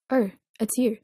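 breathy, whispered sigh of relief; relieved. A narrator's reading. Jisung finds Dong-hyuk in the kitchen, relieved. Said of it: "with a sigh of relief".

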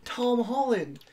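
high, loud British fangirl caricature; mock British accent. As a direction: gush loudly in a put-on British accent. Continues playing an excited Brit.

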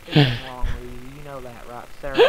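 low, lightly put-on character voice; a deep joking voice for the intro. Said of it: "stop talking that voice".

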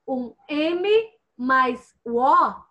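M... O, drawn out slowly; slow spelled-out syllable. Shown as a demonstration. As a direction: sound out "M" and "O" slowly like a teacher. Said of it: "A consoante M mais a vogal O". (soletrando "M mais o O" bem devagar)

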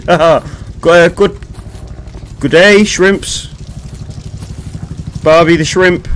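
lightly hammed-up Australian accent. Streamer greeting shrimps as a joke, mock Australian accent. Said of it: "that's me being Australian".

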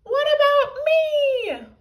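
put-on high, loud child's complaint; left-out whine. A narrator's reading. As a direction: cry out at being left behind. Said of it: "cried slightly younger Tiny Tippy".

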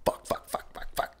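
whispered string of curses under the breath; muttered cussing. Retold or imitated. Skier fuming alone after falling, whispered cussing. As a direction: hiss the curses to yourself, barely voiced. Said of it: "And I was cussing up a storm".

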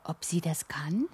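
whispered, breathy worry; a small scared whisper to the moon; anxious whisper. Acted. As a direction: whisper it, half afraid of the answer. Worried child asks the moon.

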